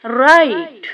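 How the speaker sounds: write said as rait, no w sound; silent w. Shown as a demonstration. Teacher shows students write with silent w. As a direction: say write starting on the r. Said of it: "here W is also silent".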